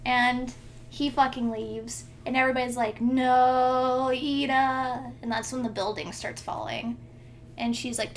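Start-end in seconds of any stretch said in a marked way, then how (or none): 3.0-5.1 drawn-out, louder 'no'; lightly hammed-up cry of loss; mock anguished cry. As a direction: wail it in half-hearted horror. Everyone cries out for Ida.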